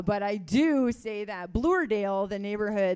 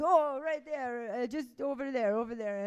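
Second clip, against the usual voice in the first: put-on old man voice; 3 semitones higher than usual. Old neighbourhood man voiced in story.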